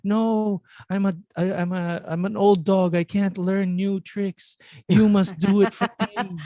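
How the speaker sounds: put-on high-pitched old-dad refusal; hammed-up helpless protest, pitched high throughout; stubborn elderly dad. Dad telling son he can't learn new tricks, high mock-stubborn voice.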